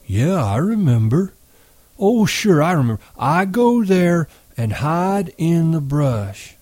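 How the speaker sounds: put-on proud to remember, like a child; simple giant reciting his lesson; eager Lennie. A narrator's reading.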